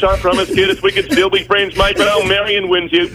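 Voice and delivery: worked-up speech rising to a peak; getting emotional. Real, not acted. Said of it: "I got a bit emotional during that".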